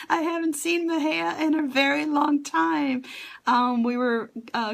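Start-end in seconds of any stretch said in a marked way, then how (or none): 0.1-3.0 laughing through tears. Real, not acted.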